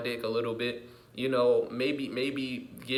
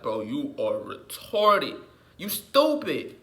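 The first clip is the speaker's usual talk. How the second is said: mocking disbelief; slower than usual. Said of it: "I look at people like".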